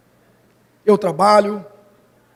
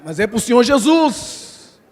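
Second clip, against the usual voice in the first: grudging, slow; slower than usual. Shown as a demonstration. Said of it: "Dá vontade".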